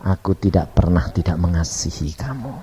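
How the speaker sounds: low, unhurried reassurance; tender divine voice. Retold or imitated. God answers the sinner's disbelief, low and tender. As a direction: settle down into calm tenderness. Voicing God's love.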